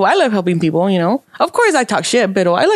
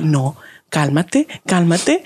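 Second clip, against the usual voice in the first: calming self; 4 semitones lower, slower than usual. Retold or imitated. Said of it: "pero luego me puse".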